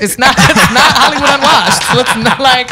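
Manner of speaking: giggling through the words; laughing. Real, not acted. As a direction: laugh while correcting yourself. Laughing at show name.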